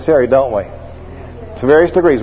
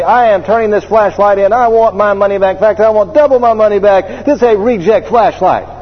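indignant customer; 4 semitones higher than usual. Retold or imitated. Customer demands refund at store.

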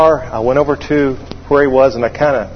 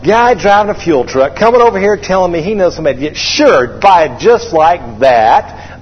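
raised scoffing rant, slowing on the last words; scornful; 3 semitones higher than usual. Retold or imitated. Pilot scoffs at fuel driver's buyer, mock-scornful. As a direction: replay a sarcastic, disbelieving inner grumble.

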